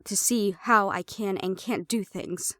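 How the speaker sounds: loud, furious snap at being used; angry outburst. Acted. To the man who tested her powers, angry outburst. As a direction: spit it out, insulted and loud. Realizes she was tested.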